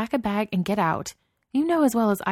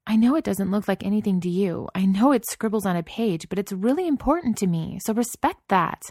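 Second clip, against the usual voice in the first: rising from firm to a furious shout, higher and louder; building angry shout; 5 semitones higher, 5 dB louder than usual. A narrator's reading. Wife yelling at her dismissive husband, building to a furious shout. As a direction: let the anger build until she is yelling. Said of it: "She was shouting by the end of it".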